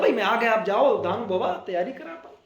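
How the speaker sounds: lightly voiced friendly cloud; cheerful cloud telling the farmers not to worry; a hint of a boastful rain cloud; voicing the cloud. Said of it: "बादल बोलता है".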